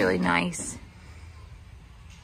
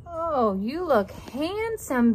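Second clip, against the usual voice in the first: high, slow, cooing praise; doting owner cooing up high and slow; 6 semitones higher, much slower than usual. Real, not acted. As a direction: gush over the dog in a high drawn-out coo. Cooing over pet in collar.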